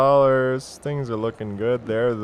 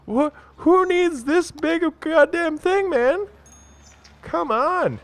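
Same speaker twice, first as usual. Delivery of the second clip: high, slow squeaky put-on voice, fed up; high-pitched mock outrage at the park size; squeaky exasperated voice; 3 dB louder, slower than usual. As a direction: squeal the complaint like a cartoon character.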